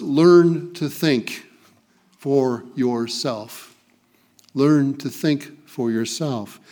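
slow, "learn" stressed with a falling end; emphatic slow. Acted. Pastor urging the church to think for themselves, slow and emphatic. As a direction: spell out "learn to think for yourself" deliberately. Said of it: "in simple terms".

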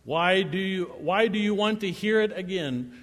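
pointed mock question, pitch lifted; sarcastic. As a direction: needle them with a leading question. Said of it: "I love the sarcasm here".

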